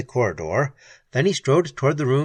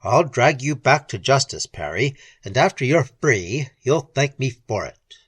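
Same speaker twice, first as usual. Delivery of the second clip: evenly; 3 dB louder than usual. Acted. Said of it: "he said evenly".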